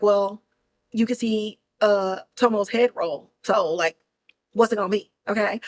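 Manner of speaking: menacing shogun. Retold or imitated. Shogun threatening Inuo.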